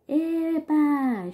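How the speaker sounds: bright, high "Eba!" of joy; delighted cheer. Shown as a demonstration. Teacher voicing a comic character, cheering. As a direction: cheer like a happy kid. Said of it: "Perceberam a entonação da leitura?".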